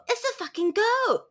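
playful high-pitched kid impression; little kid voice. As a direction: imitate a small child announcing it. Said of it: "And they go".

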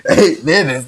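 slow, laughing disbelief. Real, not acted. Laughing at the video length.

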